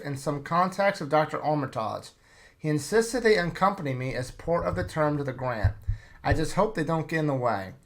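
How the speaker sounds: measured storybook narration of a strange trip; story narration. Acted. Reading the campaign intro to the players, in steady story narration. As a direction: narrate it like an old survey journal.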